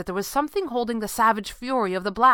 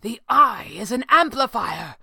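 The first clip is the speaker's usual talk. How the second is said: higher, carrying voice; crying out; 5 semitones higher, 3 dB louder than usual. A narrator's reading. Red panda explaining the jewel to the sorcerer, crying out. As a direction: cry out an urgent realisation. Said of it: "the red panda cried".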